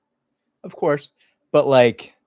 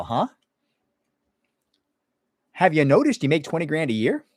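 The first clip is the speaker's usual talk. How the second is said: blunt scolding; 4 semitones higher, 3 dB louder than usual. Retold or imitated. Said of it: "the other wing of mediation is like".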